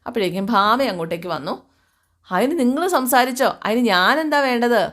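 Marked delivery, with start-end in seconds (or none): 2.3-4.8 higher-pitched, mildly annoyed comeback; lightly acted exasperation; irritated retort. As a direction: brush them off with acted impatience. Acted irritated reply to disturbers.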